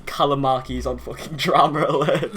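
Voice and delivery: slow, stunned imitation of a friend; mock disbelief. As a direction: act shocked at the news. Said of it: "you were like".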